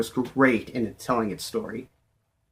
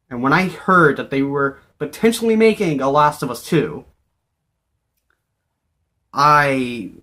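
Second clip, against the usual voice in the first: overexcited babbling; 2 semitones higher than usual. Real, not acted. Gushing over Last of Us Two.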